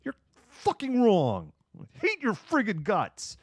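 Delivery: high-pitched mock outburst; pissed off. Bostonian telling off a friend to their face, mock furious. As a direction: imitate an East Coaster blowing up, pitch way up. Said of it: "If someone's pissed off at you".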